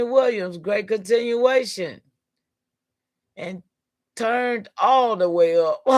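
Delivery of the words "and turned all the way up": hyped shout. Real, not acted. Hyped reaction to a comment.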